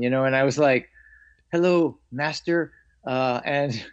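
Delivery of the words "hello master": slow, higher, lightly voiced Kung Fu monk imitation; a kid mimicking a TV monk, slowed down; Kane from Kung Fu. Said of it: "I needed to talk like Kane from Kung Fu".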